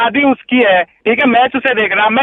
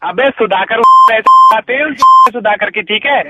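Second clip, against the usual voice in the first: irritated outburst; angry cursing; 3 dB louder than usual. Real, not acted. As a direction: swear back at the caller. Callee cursing back in quarrel.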